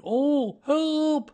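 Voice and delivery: high, loud cry for help; helpless, drawn-out high call; Winnie the Pooh stuck in a jar. A narrator's reading. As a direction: wail as a bear trapped in a jar. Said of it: "he said inside the jar".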